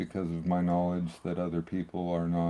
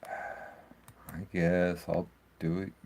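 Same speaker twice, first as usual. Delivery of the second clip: whiny; much slower than usual. Real, not acted. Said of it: "You sound like a whiny five-year-old".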